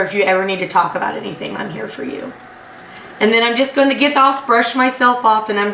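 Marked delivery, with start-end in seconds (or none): 0.0-2.3 hushed, reassuring offer, fading to a whisper; soft whisper. Acted. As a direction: comfort a friend quietly, voice dropping away. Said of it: "I'm just gonna whisper".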